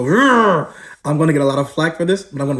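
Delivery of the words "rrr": mock growl. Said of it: "Feminists are gonna go".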